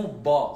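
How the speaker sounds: BA with a rounded, closed-in A; heavy, enclosed BA; closed-in, emphatic. Shown as a demonstration. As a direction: fill the mouth to darken BA. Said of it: "c'est un peu renfermé".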